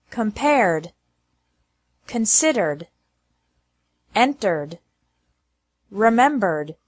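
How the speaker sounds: voiced d, no added syllable. Shown as a demonstration. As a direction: model list for learners. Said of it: "like D with no extra syllable".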